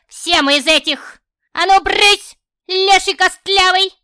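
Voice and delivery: high, very loud, furious shout; shooing witch. Acted. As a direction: chase him off with a yell. Witch shooing him away.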